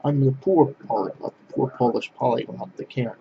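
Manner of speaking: ordinary talk, nothing marked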